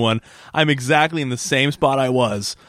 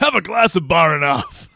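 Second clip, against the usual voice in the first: slightly higher put-on ad voice; mock advert tagline; 4 semitones higher than usual. Host capping the made-up beer ad, mock tagline. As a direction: deliver it as a spoof slogan. Finishing the spoof beer commercial.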